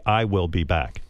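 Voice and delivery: low, measured computer voice; computer-like delivery. Retold or imitated. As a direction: drop low and say it like a machine. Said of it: "a computer would say".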